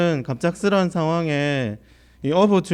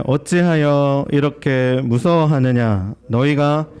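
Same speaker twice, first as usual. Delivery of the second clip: rebuke; 4 dB louder, slower than usual. Acted. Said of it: "책망하십니다".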